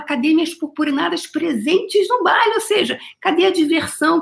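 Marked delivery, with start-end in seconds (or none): 0.0-2.5 higher, lively call to the party crowd; excited quote. Retold or imitated. Hyping up viewers with the funk lyric, higher excited call. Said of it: "Ela fala".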